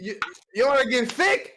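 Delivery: gym bro voice. Pretend.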